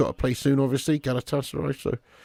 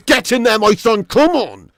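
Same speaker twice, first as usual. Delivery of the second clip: cheering; 4 semitones higher, 4 dB louder, slower than usual. Real, not acted. Cheering a goal alert.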